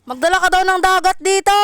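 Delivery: loud relayed message; calling out. Real, not acted. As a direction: call it out to someone far. Relaying message loudly across room. (malakas na pagsigaw ng bilin)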